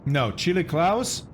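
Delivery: talking through a mouthful of food; slow words round a bite of food; mouth full. Real, not acted. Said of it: "Sorry to speak with food in your, in my mouth".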